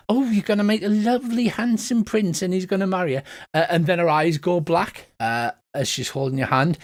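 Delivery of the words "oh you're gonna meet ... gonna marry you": gushing fortune-teller, pitched up; delighted old lady predicting romance. Acted. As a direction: coo over the palm in a higher voice. Fortune-teller gushes over the palm.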